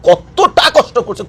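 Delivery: slow, each word weighed on কতটা; slow emphasis. Real, not acted. Vlogger urging viewers to ask Gaza, slow weighty. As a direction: drag out কতটা কষ্ট করছে slowly.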